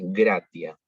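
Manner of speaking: gratia con g gutural; g dura. Shown as a demonstration. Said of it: "se pronuncia G, acá en la garganta". (gratia con g dura)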